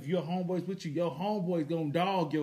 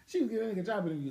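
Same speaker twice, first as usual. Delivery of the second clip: breathless, fast laughing aside; laughing whisper; 5 semitones higher, faster than usual. Real, not acted. Mocking the woman in the video, laughing whisper. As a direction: giggle it out under your breath.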